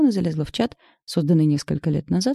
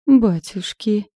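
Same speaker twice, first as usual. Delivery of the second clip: slow, higher and louder, moved to tears; tearful gasp; 5 semitones higher, 6 dB louder, much slower than usual. Acted. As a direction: gasp it as joyful tears come. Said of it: "прослезилась мама". (растроганно, со слезами)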